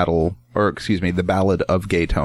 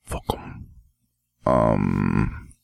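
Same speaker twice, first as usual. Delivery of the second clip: quiet aside; 12 semitones lower, 5 dB quieter than usual. Real, not acted. Trailing aside, dropping voice.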